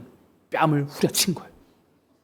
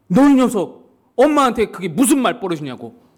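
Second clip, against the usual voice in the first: louder, higher opening burst of reproach; acted scolding; 3 semitones higher, 3 dB louder than usual. Neighbour scolds a child for talking back to mum, acted sternness. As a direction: play a neighbour telling a child off.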